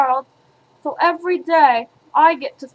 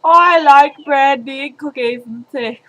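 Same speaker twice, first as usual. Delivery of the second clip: mock singer voice; 5 dB louder than usual. Mocking repeat of a singer's quote.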